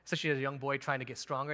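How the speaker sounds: ordinary delivery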